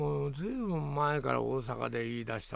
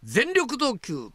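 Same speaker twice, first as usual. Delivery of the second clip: slow dramatic read; 8 semitones higher, 4 dB louder, much slower than usual. Pretend. Reading the prompt phrase dramatically.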